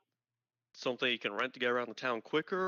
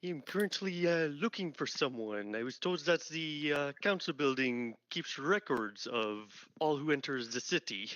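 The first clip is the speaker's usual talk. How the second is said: put-on French accent. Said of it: "Oh God, he's Canadian".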